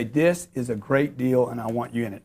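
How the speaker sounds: quiet, heartfelt invitation to family; sincere pitch. Shown as a demonstration. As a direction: say it like you mean it to a friend. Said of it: "and say".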